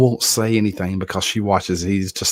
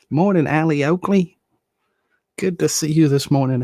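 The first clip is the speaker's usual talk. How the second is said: excited greeting; 8 semitones higher, 4 dB louder than usual. Real, not acted. Greeting viewer by name.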